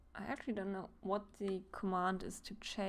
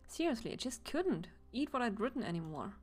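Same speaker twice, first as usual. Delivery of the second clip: eccentric poet passenger; 3 semitones higher than usual. Acted. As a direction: preach like an artist.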